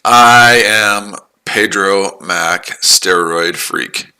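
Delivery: lightly put-on boastful voice, drawn out; mock self-introduction. Trader parodies Pedro Mac introducing himself, mock drawn-out boast. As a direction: stretch it out like a mock announcement.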